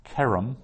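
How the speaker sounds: Kerem with KE stressed, REM light; stress on first syllable. Shown as a demonstration. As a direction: lean on the KE of Kerem. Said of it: "which syllable you put the stress on".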